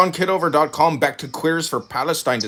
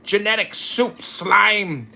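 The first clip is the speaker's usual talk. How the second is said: mock tirade; 5 semitones higher than usual. Mock insulting rant at cohost.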